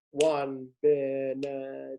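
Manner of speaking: benedicta with BE on the downbeat; wrong stress. Shown as a demonstration. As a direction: stress the first syllable of benedicta. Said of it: "So it's not".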